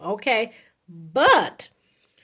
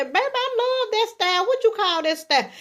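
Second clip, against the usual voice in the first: admiring compliment; 10 semitones higher than usual. Acted. Acted compliment on hair.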